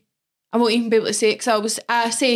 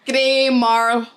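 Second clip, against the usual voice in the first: "grey marl" in a Scottish accent; Scottish-accented, effortful "grey marl". Shown as a demonstration. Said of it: "hard word to say in a Scottish accent".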